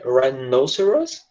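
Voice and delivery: Rhinoceros drawn out slowly with a rise at the end; slow pronunciation model. Shown as a demonstration. Teacher modeling the word slowly for the class. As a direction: say Rhinoceros slowly, each syllable clear. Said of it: "it's rhinoceros".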